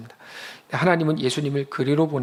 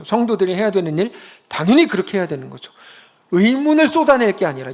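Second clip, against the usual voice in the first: rising, louder, driving the point home; emphatic preaching; 5 semitones higher, 6 dB louder than usual. Real, not acted. Preacher pressing the congregation, loud emphatic preaching.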